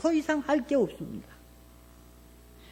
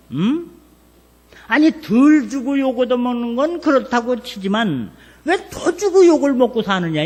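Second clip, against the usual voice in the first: son scolding father; 4 dB louder than usual. Retold or imitated. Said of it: "아버지를 앉혀놓고 가리켰지".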